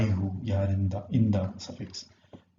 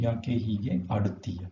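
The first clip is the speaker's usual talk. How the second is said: fast; much faster than usual. Shown as a demonstration. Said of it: "When you ask this question".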